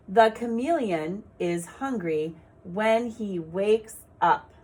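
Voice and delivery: slow, clear teacher reading; slow sentence reading for young learners; slow read aloud. Shown as a demonstration. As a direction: read it slowly for children to follow. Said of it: "see where the sight words are".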